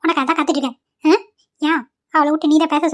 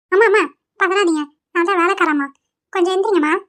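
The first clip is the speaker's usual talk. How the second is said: servant woman; 3 semitones higher than usual. Acted. Servant waking the lady.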